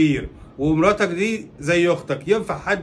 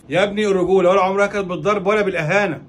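loud, higher-pitched admonishing; raised voice, indignant moral reproach; emphatic rebuke; 4 semitones higher, 5 dB louder than usual. Acted. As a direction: lecture him forcefully. Neighbour rebukes husband.

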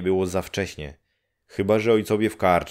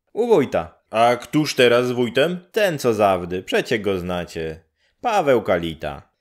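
brisk, higher neighbour voice; a matter-of-fact old neighbour; higher village woman; 4 semitones higher, 5 dB louder than usual. Acted. Neighbour woman telling Grześ nobody's home, brisk and higher.

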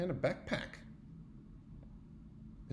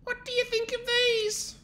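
bear asking; 4 dB louder than usual. Acted. Bear asks friends.

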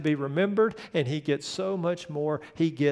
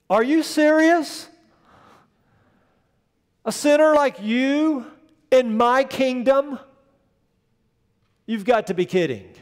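higher and louder, a scoffing disbelief; mock incredulous scorn; 7 semitones higher, 6 dB louder than usual. Preacher voicing an imagined Jesus scoffing at the sinner. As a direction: play the scornful king who can't believe it. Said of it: "consider what could have been his response".

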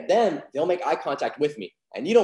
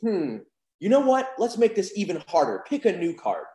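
confident; 4 semitones higher than usual. Shown as a demonstration. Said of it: "I'm gonna be confident".

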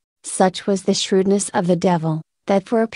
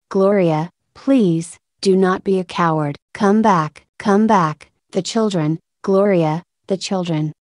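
a slightly raised, urgent plea from below; husband pleading call. Retold or imitated. Husband calling her back from death.

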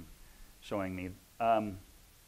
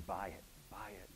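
softer, hushed repeated urging; soft urging whisper; 3 semitones lower, 11 dB quieter than usual. Retold or imitated. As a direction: nudge them quietly, like an inner prompting. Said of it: "the Holy Spirit kept whispering".

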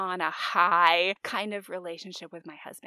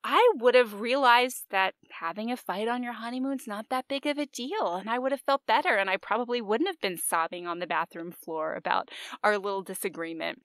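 higher and louder, an exasperated rant; frustrated outburst; 4 semitones higher, 7 dB louder than usual. Retold or imitated. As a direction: blurt it out, fed up and indignant. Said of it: "I was so frustrated".

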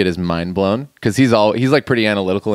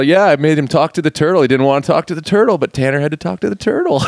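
higher, louder surfer teasing; surfer turtle voice; 6 semitones higher, 3 dB louder than usual. Retold or imitated. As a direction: rib the crowd like a surfer turtle. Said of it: "he's all".

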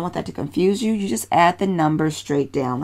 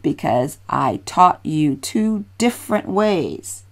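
slow, careful teacher explanation; slow and clear. Real, not acted. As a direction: spell it out slowly for the learner. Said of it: "Let me say that slowly".

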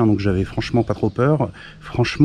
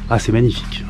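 admiring sigh. Real, not acted. Admiring the abbey.

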